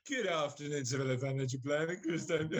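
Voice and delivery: low posh business greeting; posh phone voice. Pretend. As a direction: answer poshly, close to breaking into laughter. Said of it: "I'm putting my posh voice on".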